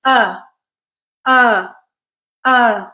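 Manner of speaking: each uh rises and then falls at the end; rise-fall vowel. Shown as a demonstration. Teacher shows learners the pitch curve of the vowel, rise-fall uh. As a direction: glide the uh up, then let it drop. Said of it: "It kind of rises and then falls at the end".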